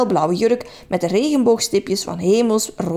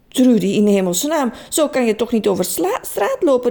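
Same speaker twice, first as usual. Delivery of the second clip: exclaimed; 2 semitones higher than usual. Acted. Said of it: "riep Frits uit".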